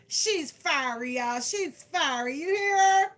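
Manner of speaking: excited, laughing commentary on the card. Real, not acted. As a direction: hype the card up to the viewers. Laughing about fiery card.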